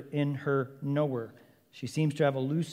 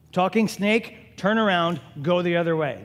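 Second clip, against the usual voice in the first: incredulous; 3 semitones higher, 5 dB louder than usual. Real, not acted. Preacher exclaims at Eve.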